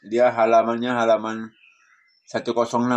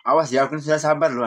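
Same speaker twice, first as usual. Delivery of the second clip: quick, higher mock warning; fast and a touch higher, as a playful threat; 4 semitones higher, faster than usual. Shown as a demonstration. Member mimicking someone boasting of patience, as a mock warning. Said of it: "ngomong kayak apa?".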